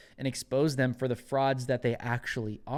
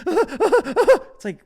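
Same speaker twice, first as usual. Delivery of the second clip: scornful laugh; 13 dB louder than usual. Real, not acted. Mocking laugh.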